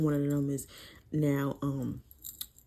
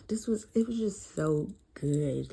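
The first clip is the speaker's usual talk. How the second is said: awed whisper. Real, not acted. Sighing over a beloved book.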